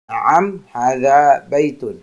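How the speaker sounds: Na'am, hadza baitun said slowly and clearly; careful demo reading; slow model answer. Shown as a demonstration. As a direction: repeat the answer for the class. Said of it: "kita jawabnya na'am".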